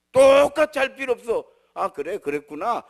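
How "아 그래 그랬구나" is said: lower, matter-of-fact parental reply; brusque acknowledgement. Shown as a demonstration. Blunt parent answering a child in their own style, brusque. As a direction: acknowledge the child briefly and plainly. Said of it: "이렇게만 뚝 하는".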